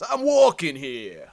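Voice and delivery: slow, loud New York tough guy; tough guy accent. Retold or imitated. Mocking wokies talking like New York tough guys, slow and loud. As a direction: lean into the classic New York cabbie line. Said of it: "talk like they're fucking tough guys".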